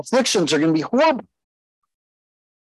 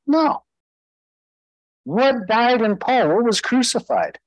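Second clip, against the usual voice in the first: emphatic preacher questions; 8 semitones higher than usual. Real, not acted.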